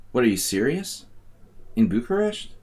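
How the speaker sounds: high incredulous question; can't believe it, pitch jumps up; surprised. Real, not acted. Shocked at the tournament news.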